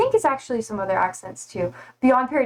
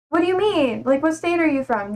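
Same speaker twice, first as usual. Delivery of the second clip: higher, bewildered retold question; puzzled reply, retold; 4 semitones higher than usual. Streamer recalling asking Swedish classmates their state, puzzled. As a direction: replay your clueless confusion, pitched up.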